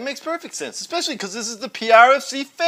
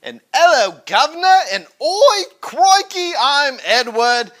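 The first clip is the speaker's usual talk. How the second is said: mock Australian accent; 3 dB louder than usual. Cohost greets fans in a silly Australian accent. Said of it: "stupid Australian accent".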